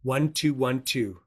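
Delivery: slow, careful digits; dictating. Real, not acted. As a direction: dictate it so they can write. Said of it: "Write this down".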